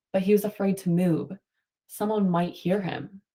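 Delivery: reading a picture book to the class, steady and clear; story read-aloud. Acted. Teacher reading a storybook to her class. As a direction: tell it like a storybook for kids.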